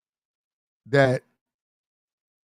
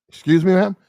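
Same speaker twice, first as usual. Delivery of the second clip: higher-pitched, questioning mock officer; police officer; 5 semitones higher, 4 dB louder than usual. Police officer answering an angry woman, politely questioning. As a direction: put on a polite, puzzled cop. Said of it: "you know how police are".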